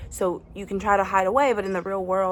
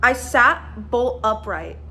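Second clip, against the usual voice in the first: excited; 3 semitones higher, 4 dB louder than usual. Real, not acted. Reacting to shocking book twist.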